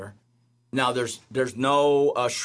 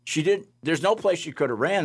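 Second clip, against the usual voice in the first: emphatic amazement; 7 semitones higher than usual. Real, not acted. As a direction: insist it was impossible. Insisting the girl vanished.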